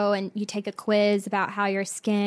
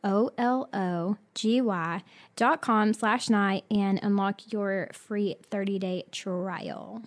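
brisk sponsor read. Acted. Host reading the Curology ad to listeners. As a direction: sell it like a podcast ad.

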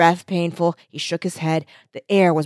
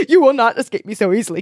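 defiant declaration; 3 semitones higher than usual. Acted. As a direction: throw the threat at her. Hero vows to villain.

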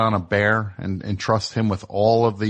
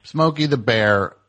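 mocking repeat; 3 semitones higher than usual. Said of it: "More like Smokey the Boar".

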